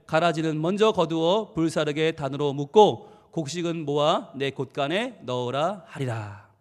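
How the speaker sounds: slow, measured Bible reading; scripture reading. Acted. Preacher leading congregation in reading Matthew, measured recitation. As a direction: read a verse aloud for everyone to follow.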